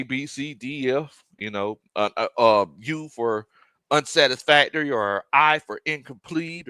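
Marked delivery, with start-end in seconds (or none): 2.8-6.7 confidently rattling off familiar grades. Real, not acted. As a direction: say it with practiced confidence. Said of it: "how confidently I said the U's and the I's".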